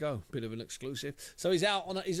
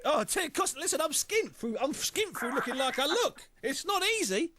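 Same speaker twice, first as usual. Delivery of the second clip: laughing; 10 semitones higher than usual. Real, not acted. Host jokes about his own size.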